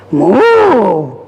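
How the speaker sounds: a light, short cow's moo. Acted. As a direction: moo like a lazy farm cow. Cows moo in story.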